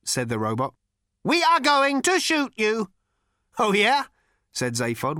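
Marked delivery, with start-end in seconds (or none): 1.2-2.9 ancient robot with a cultured rasp; cold, sleek machine voice; cold lifeless robot. A narrator's reading. Robot's character voice. 3.6-4.0 brash, swaggering space rogue; cocky Zaphod. A narrator's reading. Zaphod's character voice.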